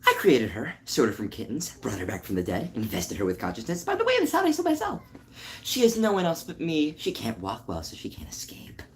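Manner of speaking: animated character voice with swooping pitch; character from first episode. Acted. Voice actor replaying a character's line for viewers, theatrical character voice. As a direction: act out the creator's dramatic monologue. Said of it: "something that I said in the first episode".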